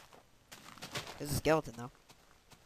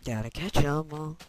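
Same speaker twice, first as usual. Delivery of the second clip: stiff mechanical robot delivery; 3 semitones higher, 3 dB louder than usual. Pretend. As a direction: say it like a machine. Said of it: "Sound like a robot".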